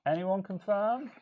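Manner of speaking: choppy audio cutting in and out; broken stream audio dropping out; tape dropouts. Real, not acted. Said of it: "Audio keeps cutting out".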